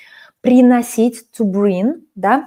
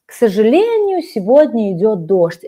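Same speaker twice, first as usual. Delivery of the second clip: mock sad. Teacher plays sad Katya to her student, mock sad. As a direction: play a mildly sad student over the rain. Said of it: "and I'm sad because of this".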